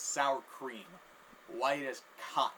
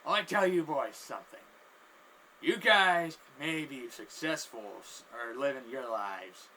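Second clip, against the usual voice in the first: acted loud lecturing; 7 dB louder than usual. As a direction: lecture the boys loudly. Guy lectures the boys, acted.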